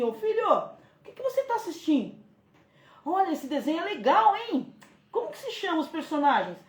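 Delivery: light, friendly interest in the cartoon; gentle curious mother. Shown as a demonstration. Mother sitting with son over his cartoon, gently curious. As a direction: draw him in kindly. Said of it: "você pode falar assim".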